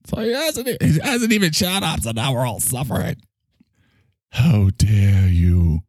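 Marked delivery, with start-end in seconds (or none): 4.3-5.8 very slow, stretched mock indignation; hammed-up scolding line; Greta Thunberg voice. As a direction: draw out every word in parody. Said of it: "did you hear Greta?".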